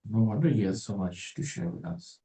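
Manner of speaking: softly spoken dry sarcasm; sarcastic. Real, not acted. Host commenting on a busy influencer's advice, sarcastic. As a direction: drop the voice for a quiet dig. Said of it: "Sorry, I'm being sarcastic".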